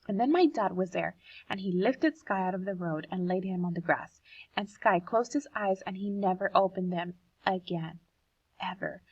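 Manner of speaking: reading a poem aloud to the class; expressive read-aloud of a children's poem. Acted.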